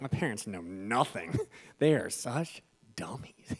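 put-on scornful teen, ending in a whisper. Pastor voicing his teenage self dismissing parents. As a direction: sneer at the parents.

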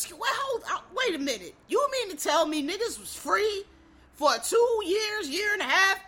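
high, loud incredulous outburst; shocked disbelief. Retold or imitated. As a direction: replay being floored by the news. Acting own shocked teenage reaction.

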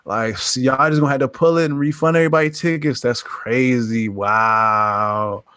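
slow, slangy studio caller; studio guy slang voice. Retold or imitated. Universal exec calling the theaters, slow slangy homie voice. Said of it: "it was definitely like".

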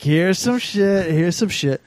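slow, deliberate delivery; slowed-down pace. Acted. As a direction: drag the pace right down. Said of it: "slowing the pace down".

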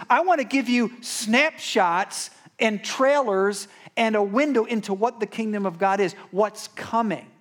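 lightly voiced Jesus promising what is coming; Jesus' promise, voiced. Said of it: "he says".

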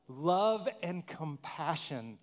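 love and compassion drawn out, word by word; slow emphatic. Shown as a demonstration. Preacher savouring the line for the congregation, slow and emphatic. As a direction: lean on each word slowly. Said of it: "I love that line too".

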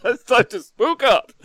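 loud, high laughing spook call; spooky voice. Acted. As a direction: belt it out like a hammy ghost. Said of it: "it's very fucking erotic".

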